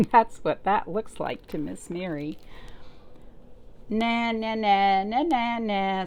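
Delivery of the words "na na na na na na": snorting taunt. Acted. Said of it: "snorted the flugel bird".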